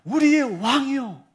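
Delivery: loud, high, drawn-out cry; slow, ringing high call; crowd's acclamation. Acted. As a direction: hail the king like a shouting crowd. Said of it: "이렇게 외치는 군중들이".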